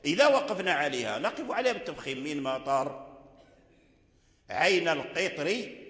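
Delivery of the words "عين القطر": عين القطر drawn out slowly, final R light and thin; teacher modelling the thin R in القطر; thin R demo. Shown as a demonstration. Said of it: "الراء مكسورة مرققة".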